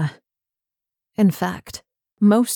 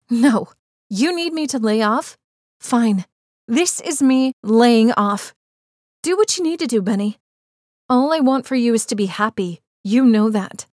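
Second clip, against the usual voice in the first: bitter and angry; 2 semitones higher than usual. Acted. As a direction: spit out a hurt "fine". Em's angry "fine, laying off.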